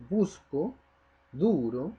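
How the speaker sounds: "Busco", "duro", each with its U stressed. Shown as a demonstration. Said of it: "yo marco la voz en la U".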